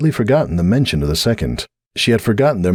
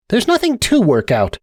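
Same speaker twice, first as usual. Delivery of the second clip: resigned stallion. A narrator's reading. Sunburst resigned.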